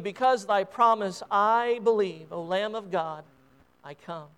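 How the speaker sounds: reverent hymn verses, lightly lifted on each Just as I am; hymn recitation. Acted. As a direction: recite it like a prayerful poem.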